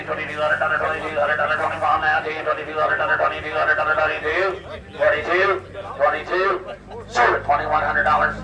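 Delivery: rapid auctioneer bid chant. Real, not acted. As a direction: rattle off the bids like a livestock auctioneer.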